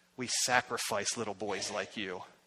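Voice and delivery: very low, menacing, threatening hushed murmur. Retelling what someone on the bus said to him, imitating a menacing voice. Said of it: "He goes with his real menacing voice".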